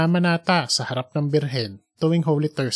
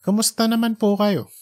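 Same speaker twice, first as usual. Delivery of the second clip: put-on young man's voice; 6 semitones higher than usual. Junjun asks.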